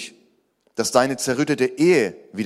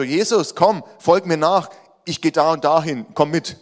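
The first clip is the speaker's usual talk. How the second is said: higher, pushy summons; acted self-important calling, pitched up; bossing Jesus along; 5 semitones higher, 5 dB louder than usual. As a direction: order someone to tag along behind you. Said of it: "Wir leben manchmal nach dem Motto".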